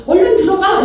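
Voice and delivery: loud, high-pitched command; urgent order. Retold or imitated. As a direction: usher hurrying a student back inside. 안내자가 학생을 안으로 재촉함. (다급하게 높고 크게 재촉하는 명령)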